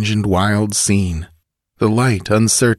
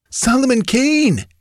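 high, raised frightened gasp; gasped in fear. Acted. Bandit to chief, frightened gasp. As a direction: blurt the feared name. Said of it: "gasped the other bandit".

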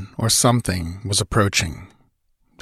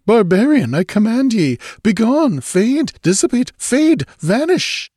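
high, loud, theatrical banishing; imperious command; 14 semitones higher, 4 dB louder than usual. A narrator's reading. Stranger banishing a barbarian he takes for a ghost, commanding. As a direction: cast each word out like a spell. Stranger orders intruder to be gone.

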